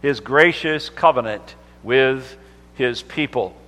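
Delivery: fervent sermon delivery; preaching. Acted. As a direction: preach it out to the congregation. Preacher builds to heightened delivery.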